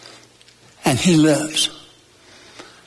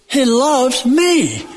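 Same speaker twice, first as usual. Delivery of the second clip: slow and higher, ME stretched with a big fall; emphatic, stress on ME; 5 semitones higher, much slower than usual. Shown as a demonstration. Preacher affirms God's love to church, emphatic on ME. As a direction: stretch out ME and let it drop. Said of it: "any way you want to emphasize".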